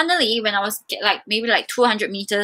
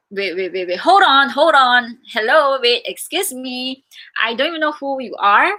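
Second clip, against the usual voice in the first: raised, hurried hold on, fending him off; flustered protest; 3 semitones higher, 3 dB louder than usual. Retold or imitated. Woman stopping a stranger on the street, flustered protest.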